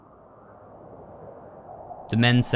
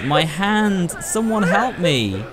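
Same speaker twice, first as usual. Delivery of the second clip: lightly voiced hurt child, higher pitched; crying child; 6 semitones higher, much slower than usual. Injured child calling for help, lightly voiced cry. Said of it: "Shitoro says".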